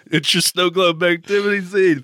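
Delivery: hammed-up know-it-all; exaggerated matter-of-fact. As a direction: lean into the smug obviousness. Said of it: "they says it like that is so matter of fact".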